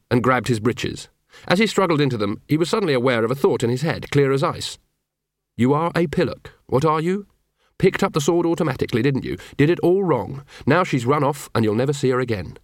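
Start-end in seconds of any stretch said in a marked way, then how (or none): 5.6-12.6 scornful dog posing as inner thoughts; scolding talking dog. Acted.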